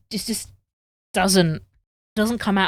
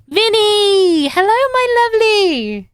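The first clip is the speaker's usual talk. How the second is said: high, loud, drawn-out sing-song hello; excited greeting; 14 semitones higher, 8 dB louder, slower than usual. Real, not acted. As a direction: call out with joy to a friend arriving. Greeting a viewer.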